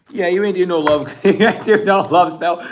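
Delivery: words bubbling out with laughs; can't stop laughing while talking; real laughter. Real, not acted. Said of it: "I don't know why I'm laughing so much".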